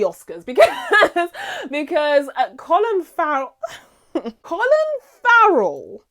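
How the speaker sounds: high, loud, breaking into laughter; giddy, halting words cut by laughs; laughing. Real, not acted. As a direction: try to get the name out through giggles. Cracking up over the actor's performance.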